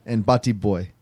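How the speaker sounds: attempted Jamaican accent that slips towards Indian; bad Jamaican accent. Shown as a demonstration. Friend demonstrating slang on request, bad Jamaican accent. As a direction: put on a shaky Jamaican accent, sounding oddly Indian. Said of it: "that sounded more Indian than Jamaican".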